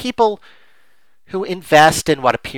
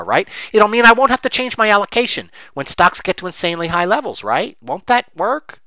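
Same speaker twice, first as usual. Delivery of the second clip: mock wishful pleading; 5 semitones higher, 3 dB louder than usual. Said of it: "And we say".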